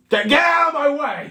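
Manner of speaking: high, loud shout to clear the path; dwarf shoving through the crowd, high loud shout. Acted. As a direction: bark him out of the way.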